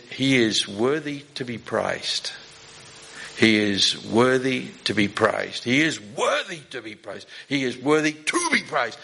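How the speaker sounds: every word of "He is worthy to be praised" pressed out slowly and evenly; emphasis on every word. Retold or imitated. Old lady at the tent revival, stressing every syllable. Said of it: "She went and put emphasis on every possible word and syllable".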